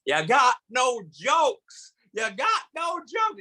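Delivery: slow, high-pitched mock angry yell; mad heckler. Huge man heckling the roasting comic, slow mock-angry holler. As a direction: drag out each word like an indignant giant. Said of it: "he's all mad. He's like".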